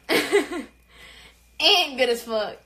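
each word stretched very slow; slow, proud drawl through a laugh; drawn-out boast. Shown as a demonstration. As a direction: savour it, dragging every word.

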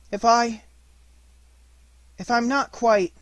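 high, halting appeal; earnest. A narrator's reading. Boy struggling to explain to his bear, earnest and faltering. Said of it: "said Christopher Robin earnestly".

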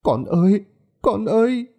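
put-on high calling out to her dead child; a mother calling her lost son. A narrator's reading. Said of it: "lẩm bẩm mà gọi". (người mẹ gọi con, giọng cao thảm thiết)

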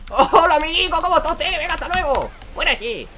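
high, loud cartoonish mocking voice; mock greeting. Gamer mocking an enemy champion he chases, high cartoon voice. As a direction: greet the enemy like a silly puppet.

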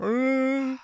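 Wookiee growl. Acted. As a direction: growl out a short Wookiee cry. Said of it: "that's my Wookiee".

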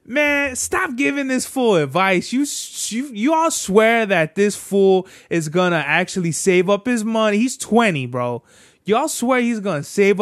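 a high, fed-up "stop it" at the group; exasperated retort. Retold or imitated. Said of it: "And I was just like".

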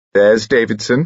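delighted. Acted. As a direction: spot a friend with delight. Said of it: "he said delightedly".

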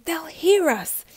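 raspy robber hissing a warning. Acted. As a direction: rasp the warning out slowly. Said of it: "hissed a raspy voice".

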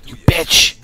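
high, loud outraged yelling; real shock at the crash, yelling. Real, not acted. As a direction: scream at the driver who hit you. Truck rams him in game.

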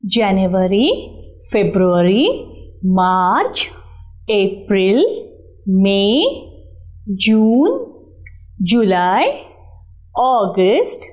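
singsong classroom recital of months; sing song rote recitation. Shown as a demonstration. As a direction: chant each month, rise on each.

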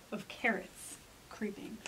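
slow, spooky storytelling whisper; creepy whisper. A narrator's reading. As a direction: whisper slowly, drawing out the dread.

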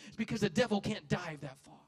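loud preached punchline; preached shout. Real, not acted. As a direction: shout it to the church.

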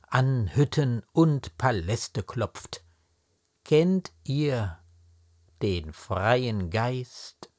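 slow, measured declamation with weighted words; stately poetry reading, drawn-out stressed words; poem recitation. Acted. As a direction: recite the verse solemnly, line by line, with pauses. Recites the poem in full before explaining.

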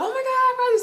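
mock high fan squeal; excited fan. Girl spotting Prodigy, mock excited squeal. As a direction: imitate a fan squealing at a sighting.

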